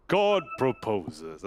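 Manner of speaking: slow, grand god-like proclamation; Zeus voice. Shown as a demonstration. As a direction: intone it slowly like a Greek god. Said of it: "Uh, give it a go".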